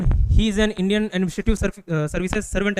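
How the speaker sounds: very slow, halting full title; slow mock full form. Shown as a demonstration. Teacher to class, slowly mocking the long full form. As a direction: drag out the long title deliberately. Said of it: "ऐसा बोलते हो क्या?".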